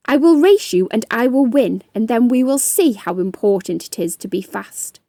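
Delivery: the proud ant, scoffing at the snail; boastful ant. Acted. Little Ant vows to win.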